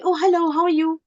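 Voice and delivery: high, breezy passing hello; quick casual greeting. Shown as a demonstration. Teacher greets someone passed in a store, quick and casual. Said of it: "not just with the quick".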